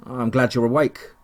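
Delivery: light Texan twang; Texan accent. Acted. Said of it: "with a twang ... Texan accent".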